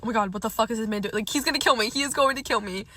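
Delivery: a rushed, mildly panicked inner monologue; freaking out. Retold or imitated. Telling how she thought he'd kill her, freaking out. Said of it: "now I'm freaking out".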